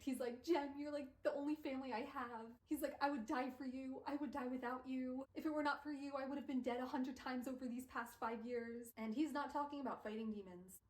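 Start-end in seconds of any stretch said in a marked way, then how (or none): 0.4-8.9 raised, urgent pleading, lightly dramatized; panicked. Acted. Will swearing devotion to his friend Jem, acted panic. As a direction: pour out an acted desperate plea. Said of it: "But Will is panicked".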